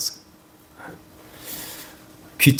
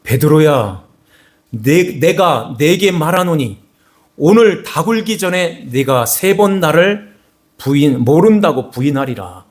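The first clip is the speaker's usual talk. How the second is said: higher, slow and solemn as Jesus; lightly voiced Jesus, high and slow; Jesus foretelling; 4 semitones higher than usual. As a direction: speak it slowly as a grave prophecy from above. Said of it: "요 말을 끝에 삼십사 절에".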